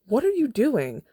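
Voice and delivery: high, loud furious demand; angry shout. Acted. Katniss confronting Peeta after the interview, angry shout. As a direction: yell it in his face.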